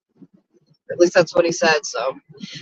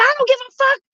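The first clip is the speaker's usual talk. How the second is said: retold yelling back; 13 semitones higher than usual. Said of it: "I said".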